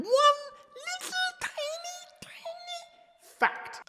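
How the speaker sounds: breathy whisper on the tiny fact. Acted. Host whispering to viewers about one tiny fact. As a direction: whisper it like a secret.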